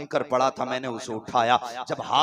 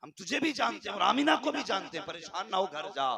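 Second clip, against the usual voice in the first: raised, higher proclaiming voice, settling at the end; proclaimed reassurance; 4 semitones higher than usual. Acted. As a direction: declaim it as a voice from on high. Voice from heaven reassures Abdul Muttalib.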